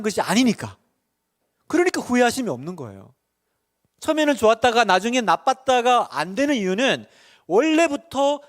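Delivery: loud, high, emphatic sermon delivery; full-force preaching. Real, not acted. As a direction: drive each point home to the congregation.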